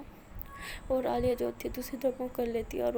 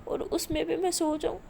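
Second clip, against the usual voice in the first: higher, louder tearful protest; crying lament; 3 semitones higher, 4 dB louder than usual. Acted. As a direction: speak through tears, refusing to sleep. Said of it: "تو ایسے بول کے رو رہی ہوتی ہے". (روتے ہوئے شکوہ)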